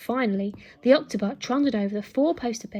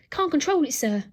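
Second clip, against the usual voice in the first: higher, louder shout over noise; 5 semitones higher, 5 dB louder than usual. Acted. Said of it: "shouted Nanny over the noise".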